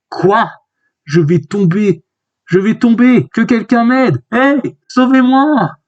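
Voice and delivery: high-pitched cry for help; acted panic. Falling character begging to be saved, high acted panic.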